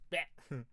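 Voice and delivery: imitated death noise. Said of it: "Did he just go".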